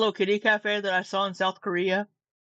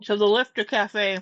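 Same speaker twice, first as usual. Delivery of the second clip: talking while chewing; words round a bite of food; mouth full. Real, not acted. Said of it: "sorry, I'm chewing".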